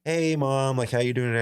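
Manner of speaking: high-pitched mock greeting to mom. Kid mocking mom from the car, mocking. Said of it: "I'm, like, mocking her".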